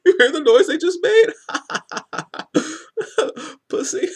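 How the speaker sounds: high, laughing mock jeer; mocking laughter. Bully stepping on somebody and jeering, mocking laughter. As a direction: cackle through the taunt as an imitated bully. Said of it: "and be like".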